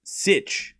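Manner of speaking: SICH said with a hissing s; syllable sounded out. Shown as a demonstration. Streamer rehearsing a player's name for viewers, syllable sounded out. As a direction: isolate Sich, sharp s at the front. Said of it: "Now I'm saying it right".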